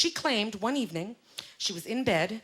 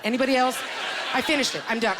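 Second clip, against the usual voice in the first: proud shout; 3 semitones higher, 3 dB louder, faster than usual. Acted. Proud announcement.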